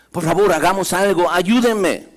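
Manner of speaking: desperate plea. Acted. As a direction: cry out for help.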